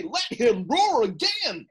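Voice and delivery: a touch of a roar, held back; hint at a lion's roar; light roar. Retold or imitated. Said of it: "I will roar".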